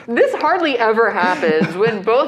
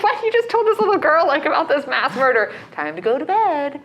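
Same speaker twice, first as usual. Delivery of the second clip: incredulous; 5 semitones higher than usual. Retold or imitated. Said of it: "I'm like".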